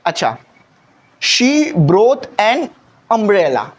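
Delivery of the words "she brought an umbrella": slow example. Shown as a demonstration. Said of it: "normal सा umbrella है".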